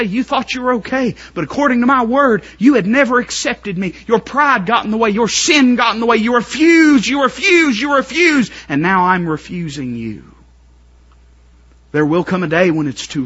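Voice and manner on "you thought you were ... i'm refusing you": high, loud rebuke building to refused; shouted divine reproach; God's rebuke. Acted. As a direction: accuse them from the throne. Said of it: "God's gonna say".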